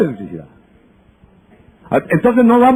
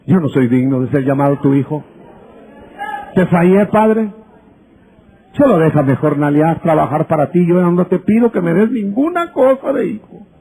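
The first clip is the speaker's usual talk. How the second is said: humble son; 3 semitones lower than usual. Acted. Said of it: "qué dijo el pródigo".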